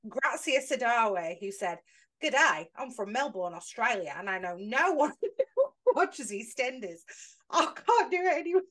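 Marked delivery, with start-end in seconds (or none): 2.2-7.0 slow, amateur Australian accent. Shown as a demonstration. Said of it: "read this in an Australian accent". 7.5-8.6 higher, giggly break from the accent; giving up on accent. Real, not acted. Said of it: "I couldn't carry on doing it".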